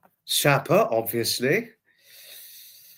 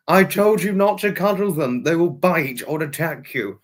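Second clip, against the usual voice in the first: mock scolding; 4 semitones higher than usual. Acted scolding after dog attack.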